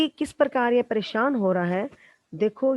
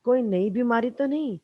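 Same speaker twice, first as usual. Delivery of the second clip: higher mock voice; 4 semitones higher than usual. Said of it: "कहते".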